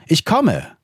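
put-on young boy. Young Samuel answers the call, eager high boy's voice. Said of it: "antwortete der Junge".

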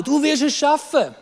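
acted word of encouragement; encouraging. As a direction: slowly assure someone they will manage. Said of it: "wo du Menschen ermutigen musst".

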